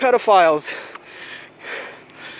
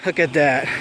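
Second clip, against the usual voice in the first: laughing; 9 semitones lower than usual. Real, not acted. Laughing at fleeing witnesses.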